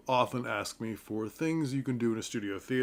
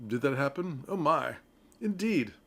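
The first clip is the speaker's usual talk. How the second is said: British murder mystery voice; 2 semitones higher than usual. Acted. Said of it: "British, English style of like".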